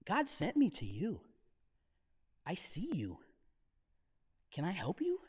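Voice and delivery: gentle, unhurried reassurance; compassionate. Acted. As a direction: offer help tenderly, pausing between sentences. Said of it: "like, compassionately".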